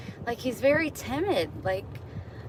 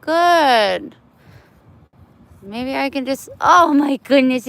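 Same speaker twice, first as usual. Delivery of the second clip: much higher and louder pet voice; 8 semitones higher, 11 dB louder than usual. Real, not acted. Cooing loudly to a neutered cat. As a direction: gush over the cat in a squeaky voice.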